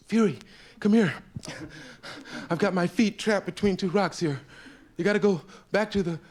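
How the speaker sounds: calling the horse. Acted. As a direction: shout for help from the rocks. Joey calling his horse.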